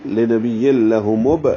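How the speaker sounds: لہ مب with a small echoing bounce on the closing b; qalqala on ba. Shown as a demonstration. Teacher showing qalqala, لہ مب with a bounced final b. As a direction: slowly recite لہ مب, bouncing the final b. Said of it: "تو با ساکن میں قلقلہ ہوگا".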